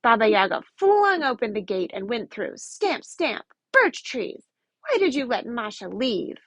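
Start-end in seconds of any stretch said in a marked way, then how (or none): 2.6-6.4 snarled. Acted. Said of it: "she snarled".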